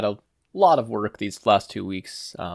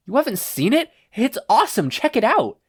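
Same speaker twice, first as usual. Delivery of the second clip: much higher, eager; excited hype; 13 semitones higher, 5 dB louder than usual. Acted. Kirishima showing Katsuki the clip, hyped. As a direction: sell the video, all hyped up.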